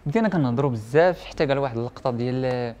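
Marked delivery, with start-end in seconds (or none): none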